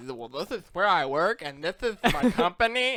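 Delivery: loud, high, laughing self-imitation; mock tell-all. Podcaster mimicking how they revealed their workplace, laughing. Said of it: "I was like".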